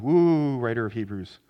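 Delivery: loud, high whoop easing down; mock astonishment. Congregation reacting to the writer of Hebrews, mock astonishment. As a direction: react as an overwhelmed crowd, then settle. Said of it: "everyone's going".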